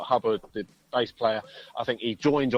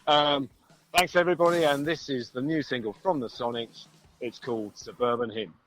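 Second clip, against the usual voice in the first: lightly put-on radio DJ, louder at first; raised DJ intro settling into usual talk; 4 dB louder than usual. Musician introducing his band's single on request, light DJ voice. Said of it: "in your best D J voice then".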